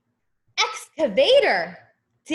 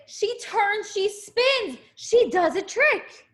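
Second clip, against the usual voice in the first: lively storytelling; 8 semitones higher than usual. A narrator's reading. Skid steer spinning, lively reading.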